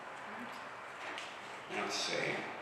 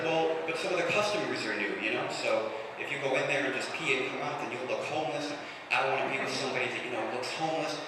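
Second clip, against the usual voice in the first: put-on girlfriend explaining; 2 semitones higher, 5 dB quieter than usual. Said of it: "And she was like".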